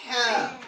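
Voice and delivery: Ha said from the middle of the throat, firm; teacher models Ha for everybody to copy. Shown as a demonstration. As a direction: give the class Ha to repeat.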